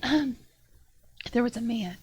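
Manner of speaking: halting small-creature voice, often loud; little monkey storyteller. Acted. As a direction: recount it piece by piece as a little monkey. Monkey tells what she saw.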